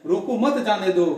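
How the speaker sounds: रोको मत as one unit, then जाने दो; pause after मत. Shown as a demonstration. Teacher restating there is no need to stop, break after मत. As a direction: stress मत, then let जाने दो follow. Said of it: "अब रोकने की जरूरत नहीं है".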